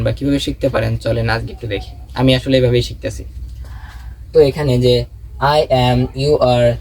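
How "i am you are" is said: full "I am, you are", each word separate; "I am, you are" as distinct, unjoined words; full forms. Shown as a demonstration. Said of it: "তো এখানে এই বিষয়গুলো চলেন আমরা দেখি".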